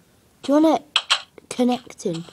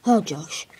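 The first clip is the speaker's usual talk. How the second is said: whisper; 5 semitones lower than usual. Real, not acted. Whispering to Josh the pet, hushed. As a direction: breathe it out gently.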